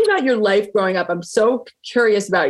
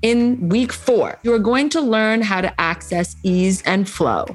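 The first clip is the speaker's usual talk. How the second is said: measured, emphatic podcast promo voice; promo read. Acted. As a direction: pitch the challenge with deliberate pauses. Reads a promo for the challenge.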